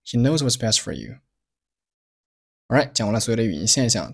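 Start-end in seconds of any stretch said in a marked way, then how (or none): 0.0-1.2 "He knows what's best for you" with "for" reduced; connected weak forms. Shown as a demonstration. Teacher models "He knows what's best for you" with linked, weak forms. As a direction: swallow the t of "best", shorten "for" to "fur". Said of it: "for是做了缩读".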